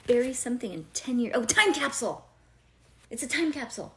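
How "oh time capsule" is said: excited. Real, not acted. Suddenly remembers the word.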